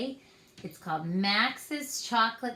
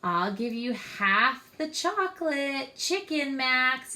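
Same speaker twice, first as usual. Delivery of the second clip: louder, higher bargaining call; mild yell; 4 semitones higher, 4 dB louder than usual. Acted. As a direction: shout an offer to him. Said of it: "yelled Ruby".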